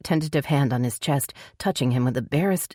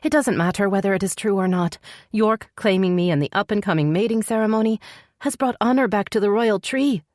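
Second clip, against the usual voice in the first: resigned heroine in a higher pitch; higher female character voice, weary explanation; sighing; 6 semitones higher than usual. A narrator's reading. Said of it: "she sighed".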